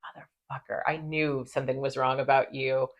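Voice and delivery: a mock angry whisper, breathy and hushed; pissed off. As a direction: hiss it in quiet fury. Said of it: "Michael just looks pissed".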